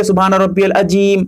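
العظیم mispronounced "al-ajeem", with a j; wrong j sound. Shown as a demonstration. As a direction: recite the phrase with the mistaken j in العظیم. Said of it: "جیم پڑھتے ہیں". (العظیم میں ظ کی جگہ جیم کا غلط تلفظ)

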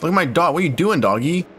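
excited dog talk. Real, not acted. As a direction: gush over the dog, half laughing. Talking to his in-game dog.

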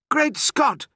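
very high-pitched exclamation; astonished outburst. A narrator's reading. Doctor watching pheasants fly from the pram, astonished. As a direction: exclaim in utter amazement. Doctor sees birds escaping.

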